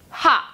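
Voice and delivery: 하 as one short, separate syllable; sound demo for 하. Shown as a demonstration. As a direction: say 하 alone as a model sound. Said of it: "하 소리를 내요". (하를 한 음절로 또박또박 발음)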